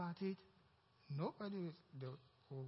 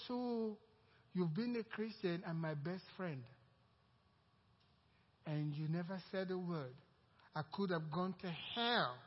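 angry friend; 3 semitones higher, 5 dB louder than usual. Retold or imitated. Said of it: "He got mad".

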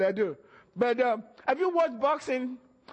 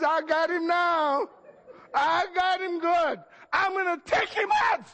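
1 devil's gloating shout; 6 semitones higher than usual. Retold or imitated. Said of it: "He says".

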